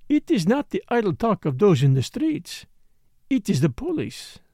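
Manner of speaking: lightly voiced dancer with an accent; insistent foreign dancer. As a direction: play the accented dancer, a little pointed.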